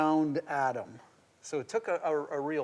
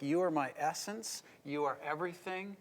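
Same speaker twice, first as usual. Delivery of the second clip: tender words; 6 dB quieter than usual. Retold or imitated. Tender words of first love.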